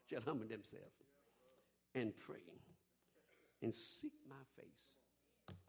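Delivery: slow, soft breathy whisper; hushed scripture. Acted. Preacher quoting scripture to the church, whispered slowly. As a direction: draw it out in a whisper.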